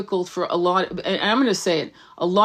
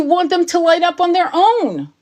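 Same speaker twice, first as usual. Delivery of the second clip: much higher, strained outraged cry; outraged rant; 6 semitones higher than usual. Real, not acted. Psychic scolding arrogant healers, outraged and much higher. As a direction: erupt in disbelief at their arrogance.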